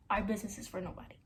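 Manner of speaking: fast, hushed whisper; whispered quote. Retold or imitated. Quoting boyfriend's secret line in a whisper. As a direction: murmur it like a secret.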